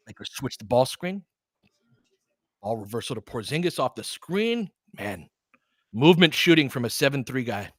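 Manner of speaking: quick running game call, rising on big plays; casual sports commentator calling each possession; live play-by-play. Acted. Play-by-play resumes.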